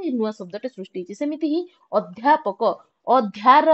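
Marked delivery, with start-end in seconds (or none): 3.1-3.7 ଅଧ୍ୟାର with extra force on ଧ୍ୟା; stress on ଧ୍ୟା. Shown as a demonstration. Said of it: "ଅଧିକା ଜୋର ଦିଅନ୍ତି". (ଅଧ୍ୟାରର ଧ୍ୟା ଉପରେ ଅଧିକା ଜୋର)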